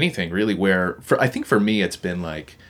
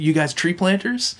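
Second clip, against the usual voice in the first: put-on friendly Quebec French accent, much higher and a bit louder; imitating Quebec accent; 12 semitones higher, 4 dB louder than usual. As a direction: play the Quebec guy asking, in his accent. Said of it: "thick Quebec accent".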